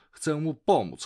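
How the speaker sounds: words rising towards a bark; głośne szczekanie psa. A narrator's reading. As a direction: raise pitch and volume as the dog gets worked up. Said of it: "Szczeknął tak głośno". (coraz głośniej, jak pies tuż przed szczeknięciem)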